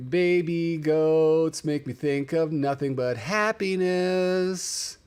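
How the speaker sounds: dreamy. Real, not acted. Gushing over goat video.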